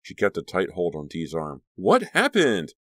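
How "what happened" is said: high, loud, slow question; demanding. A narrator's reading. Caroline holding Dee's arm, demanding. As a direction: insist on an answer, stretching it.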